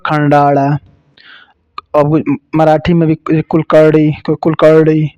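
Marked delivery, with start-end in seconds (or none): 0.1-0.8 Gujarati retroflex la. Shown as a demonstration. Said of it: "वो लोग खंडाड़ा".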